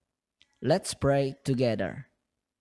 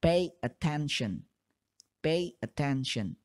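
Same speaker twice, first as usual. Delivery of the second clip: slow and separated. Shown as a demonstration. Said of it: "lambat atau secara terpisah".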